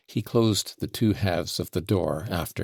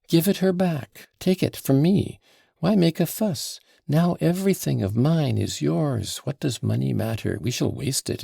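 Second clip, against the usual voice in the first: higher, urgent pleading; excited pleading; 8 semitones higher, 3 dB louder than usual. Acted. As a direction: beg him eagerly.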